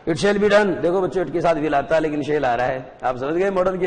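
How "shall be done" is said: eager, raised servant's reply; bow and promise it; obedient servant. Acted. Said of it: "कहता है". (सेवक का उत्साहित जवाब)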